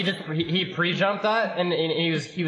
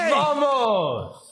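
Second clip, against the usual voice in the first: excited shout; 9 semitones higher than usual. Real, not acted. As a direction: belt out a victory cry. Goal celebration.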